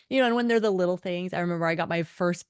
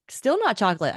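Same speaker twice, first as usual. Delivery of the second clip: annoyed; 4 semitones higher, 5 dB louder than usual. Retold or imitated. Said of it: "So I am just so mad".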